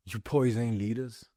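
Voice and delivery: soft, slow, cold delivery; quiet contempt. Real, not acted. Repeated line, quiet take.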